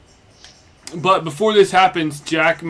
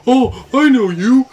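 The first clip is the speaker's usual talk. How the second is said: surprised recognition; 9 semitones higher, 6 dB louder, slower than usual. Acted. Characters recognize each other suddenly.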